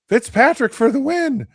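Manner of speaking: mock commentator shouting the win; announcer call. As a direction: belt it out like a play-by-play call. Calling the playoff winner.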